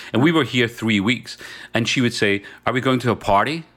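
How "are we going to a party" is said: put-on light, prim English Mary Poppins accent. Imitating first wife asking about a party, hint of a Mary Poppins accent. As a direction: ask it like a genteel Mary Poppins type. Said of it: "Mary Poppins accent".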